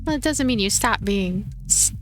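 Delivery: ordinary talk, nothing marked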